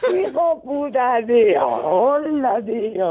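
slow, laughing curse; relieved laughing disbelief. Real, not acted. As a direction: curse through real laughter. Victim realizes it was a prank.

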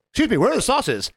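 retold demanding question; demanding customer. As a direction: imitate a pushy diner asking up high.

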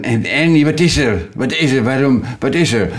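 jolted awake, asking what is wrong; startled Bert. Retold or imitated. Bert woken by Ernie, startled and alarmed. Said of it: "Bert schrikt daar altijd meteen van".

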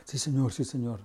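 joven respondiendo. Retold or imitated. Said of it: "Me dice así".

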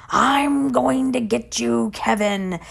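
drawn-out threat from a scary furnace, not a full scream; mock screaming furnace. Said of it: "starts screaming at him".

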